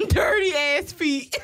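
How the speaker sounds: slow words broken by laughter; laughing. Real, not acted. Friend mocks the stranger's feet, laughing.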